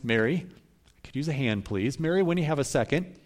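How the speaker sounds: softly asking a sister for help, politely; a gentle, courteous plea; polite request. Retold or imitated. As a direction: Martha quietly asking Mary for a hand. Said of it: "asked Mary politely a few times".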